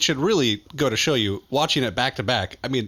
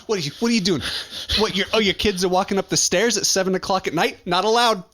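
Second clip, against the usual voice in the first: high, scolding nosy neighbour with a laugh; hammed-up scold of kids on the stairs; mock busybody; 5 semitones higher than usual. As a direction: play the grumpy complex watchdog. Playing a suspicious grouch.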